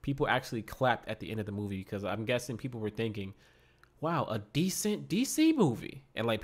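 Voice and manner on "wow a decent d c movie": slow, high-pitched pleasant surprise; mock amazement. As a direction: imitate an amazed audience, drawing it out. Voicing what surprised audience thought.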